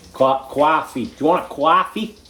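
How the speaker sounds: hammed-up American "coffee" as "quaffee"; American accent. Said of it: "in your American accent".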